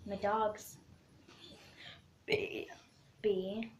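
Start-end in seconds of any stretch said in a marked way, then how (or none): 2.3-2.7 letter burped out. Shown as a demonstration. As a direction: burp the letter B. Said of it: "so I did B".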